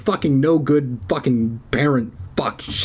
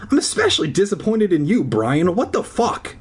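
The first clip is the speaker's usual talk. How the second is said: mock angry scolding; 6 semitones higher than usual. Teacher scolding Brian.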